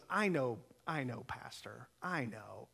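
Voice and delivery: soft, low, soothing friend; quietly understanding, as an acted friend; retold reassurance. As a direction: reassure gently, voice dropping away. Friend reassures pastor in the story.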